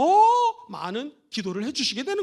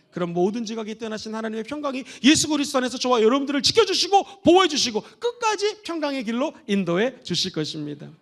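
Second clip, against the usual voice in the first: ordinary talk, nothing marked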